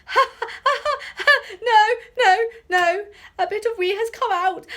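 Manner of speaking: very high, loud shrieking laughter and crying; desperate laughing sob. Acted. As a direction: beg for it to stop while laughing. Professor tickled to breaking.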